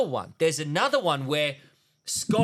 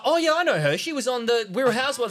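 imitating girlfriend; 7 semitones higher than usual. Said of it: "she was like".

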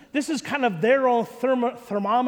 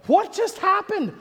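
high-pitched mock panic; bewildered outburst; 10 semitones higher, 3 dB louder than usual. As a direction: cry it out in acted disbelief. Retold panicked exchange with Crystal.

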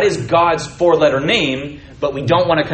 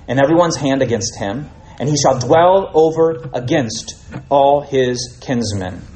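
scripture reading; 4 dB louder than usual. Acted. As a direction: let each phrase land, unhurried. Reads Genesis passage aloud.

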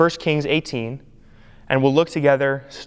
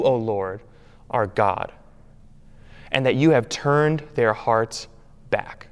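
prayer. Retold or imitated. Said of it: "when Elijah cries out to his God".

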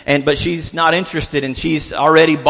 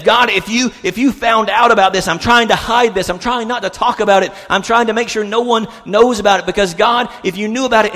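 higher-pitched, urgent confession to God; pressing acted prayer; desperate plea; 5 semitones higher than usual. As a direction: plead as if hiding a secret.

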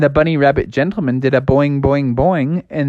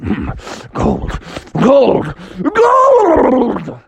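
dreamy bear voice; 10 semitones higher, much slower than usual. Acted. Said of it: "he started saying".

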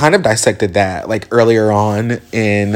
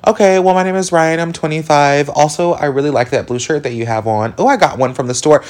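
higher, chatty mock interview answer; mock job candidate going off track; rambling interviewee; 6 semitones higher than usual. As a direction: play yourself babbling in an interview. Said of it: "no employer wants to be like".

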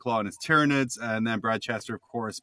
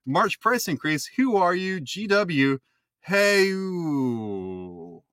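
put-on Canadian accent; 5 semitones higher, much slower than usual. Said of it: "You've nailed the Canadian accent perfectly".

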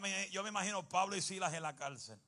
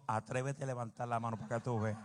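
laughing mock husband; 5 semitones lower than usual. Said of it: "un marido dijo".

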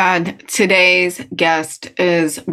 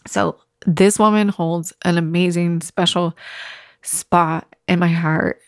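holding back tears. Real, not acted. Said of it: "I'm trying not to cry".

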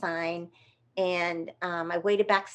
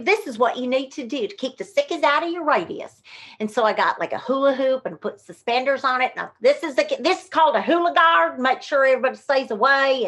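higher, louder hammed-up salesy character; Myrtle Myth; 5 semitones higher, 4 dB louder than usual. Performer playing Myrtle Myth for the audience, salesy. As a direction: sell the hula guard like a pitchwoman. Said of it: "a character called Myrtle Myth".

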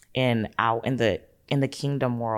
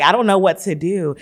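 high, loud mock desperation; retold panic; 7 semitones higher, 10 dB louder than usual. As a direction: wail it helplessly, playing up the panic. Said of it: "I have a full-on anxiety attack".

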